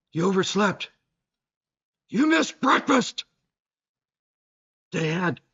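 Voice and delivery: melodramatic robotic narrator; dramatic AI voice. Retold or imitated. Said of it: "still the same dramatic tone".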